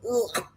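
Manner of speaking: low-key groan of disgust; groan, put off by the cringe; cringing groan. Retold or imitated. Host reacting to Francesca's flirting, cringing groan. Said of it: "Oh, it's so cringy".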